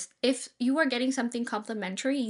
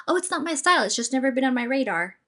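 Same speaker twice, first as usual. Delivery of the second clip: polite decline. Shown as a demonstration. Adviser showing a polite way to decline music, friendly. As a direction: turn it down gently and kindly. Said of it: "You can say it like that".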